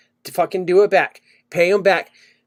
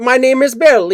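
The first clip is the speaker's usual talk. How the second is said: higher-pitched imitation of an Indian accent; 4 semitones higher than usual. Spam caller insisting on his name, imitated Indian accent. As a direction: repeat it as a lightly mocked Indian-accented caller. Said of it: "I'm not trying to do the accent".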